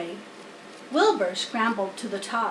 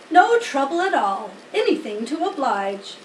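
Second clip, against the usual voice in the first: oily helpfulness; Templeton the rat; 2 semitones higher, 5 dB louder than usual. Acted. Templeton offering string, lightly voiced rat.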